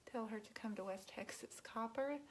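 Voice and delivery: whispered aside, voice off. Real, not acted. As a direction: lean in and whisper it to Q. Secret aside to Q.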